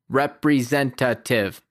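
slow, over-articulated robot voice; mechanical, spaced-out syllables like a robot. Retold or imitated. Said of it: "in a mechanical, over-articulated, robot-sounding voice".

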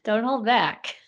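laughing, slow and soft. Real, not acted. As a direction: laugh through the words. Laughing at the caller's joke.

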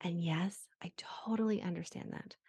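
soft whispered aside. Real, not acted. Therapist conceding to listeners, whispered. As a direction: drop to a whisper to concede the point.

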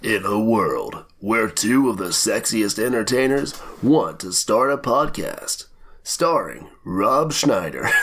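a dramatic trailer voiceover, drawn out; movie trailer voice. Pretend. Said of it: "I can do that epic voice in my throat like this".

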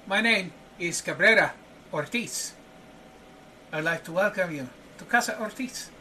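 a gracious welcome to his home; welcoming host. Acted. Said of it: "he says, uh".

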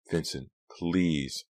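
slow, heated insistence. Acted. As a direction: press him hard, word by word. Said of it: "Delia repeated heatedly".

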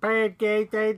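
broad Boston vowels on Podcast Addict; Boston accent. Pretend. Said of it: "Like a Boston accent".

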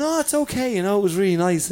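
lightly acted consoling, pitched high; retold reassurance. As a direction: soothe someone who is crying. Retold consoling of a weeping woman.

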